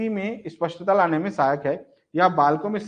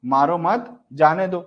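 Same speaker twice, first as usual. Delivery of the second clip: "मारो मत" slow and drawn, then "जाने दो"; pause after मत; slower than usual. Shown as a demonstration. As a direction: keep मारो मत together, break before जाने दो. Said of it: "इसी विराम चिन्हों का प्रयोग". ("मारो मत" के बाद विराम, फिर "जाने दो")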